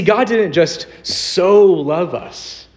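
"so love" pushed up and slowed; emphatic so. Shown as a demonstration. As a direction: stress "so" emphatically. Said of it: "in an emphatic way".

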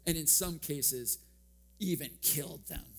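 a hint of a dry professor delivering the blow; deadpan professor punchline. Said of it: "taps me on the shoulder and goes".

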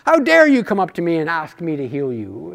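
understated mock indignation; mock anger. Preacher imagines Jesus angry at the sick man, mock anger. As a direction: act briefly affronted, without really shouting. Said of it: "Was he angry at this guy?".

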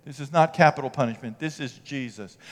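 a hint of an offended listener objecting to the pastor; protesting churchgoer. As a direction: play the offended believer quietly. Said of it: "You say".

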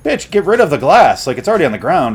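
shouting at the screen to ditch the glass; exasperated yell. Retold or imitated. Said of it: "I'm like".

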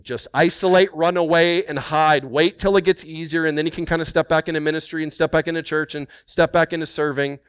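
loud, high, urgent pleading to hide away; screaming pain's voice. Retold or imitated. Inner pain screaming at a hurting believer to isolate, loud. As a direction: let the pain yell at them to run. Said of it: "pain that is screaming".

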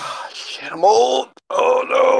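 whispered curse, then a high dismayed cry; mock dismay. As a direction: act shocked at being old.

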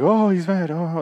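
high-pitched scandalized crowd; mock offended dismay. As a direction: overreact as if deeply offended, hammed up. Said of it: "they all get, like, offended".

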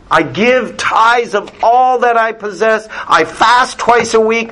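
a touch of a hammed-up proud Pharisee; smug Pharisee. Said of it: "I'll paraphrase it".

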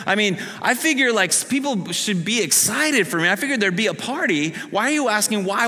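puzzled why nobody's celebrating; excited healed man. Retold or imitated. Healed man wanting a party from his neighbors, excited and high. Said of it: "I'm thinking he's thinking".

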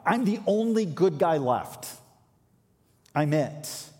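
smug self-pity; proud, self-important. Retold or imitated. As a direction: say it like the only hero left. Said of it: "laced with self-importance and pride".

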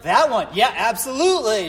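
loud playful yes with a laugh; mock eager agreement. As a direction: play along loudly. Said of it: "I was like".

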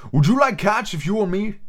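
high slurred indignant mouse; high cartoon mouse outrage; shrill, passionate mouse. A narrator's reading. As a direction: demand it in a squawky mouse voice. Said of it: "cried the mouse in a shrill".

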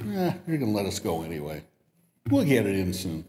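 fast, offhand shrug of a line; careless attitude. Retold or imitated. Students brushing off the professor, careless. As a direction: toss it off lazily. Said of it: "Notice the attitude change".

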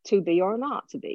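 Shakespearean original-pronunciation accent, everyday delivery; earthy original-pronunciation accent, unfussy. Shown as a demonstration. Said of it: "original pronunciation".

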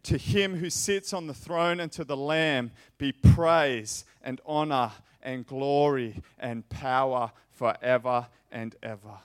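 loud, slow exultant proclamation; preacher's loud slow doxology; proclaiming praise. Acted. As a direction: declare it like a choir's praise. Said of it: "they were singing".

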